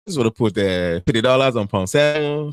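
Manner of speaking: put-on lilting Nigerian-accented gas customer; mimicked singsong Nigerian accent. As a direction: imitate a Nigerian accent, almost singing it. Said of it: "Why do you have to sound like this?".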